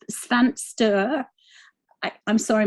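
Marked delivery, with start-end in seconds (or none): 0.1-1.2 "Sven Sture" tried with a Swedish accent, Sven with a short vowel and Sture as "STEW-reh"; attempted Swedish pronunciation. Shown as a demonstration. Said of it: "my Swedish accent is terrible".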